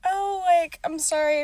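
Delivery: high, bright-on-top apologetic brush-off; lifted, breezy mock apology; fake-polite apology. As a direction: sound sorry without meaning it. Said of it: "I said".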